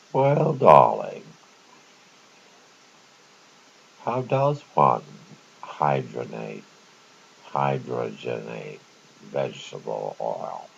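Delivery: lightly voiced grand lady, slow and drawn out; a hint of a society lady calling across the room; posh lady. Imitating the lady yelling across the restaurant, slow and drawn. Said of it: "I'll see if I can do it like she did".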